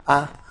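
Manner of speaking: "A." said as a clear open a sound; Korean vowel a. Shown as a demonstration. Teacher to class, modelling the Korean vowel, a clear open "A.". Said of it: "que se pronuncia A".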